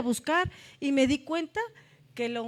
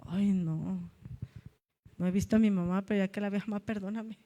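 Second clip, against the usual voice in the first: tender apology; 3 semitones lower than usual. Retold or imitated.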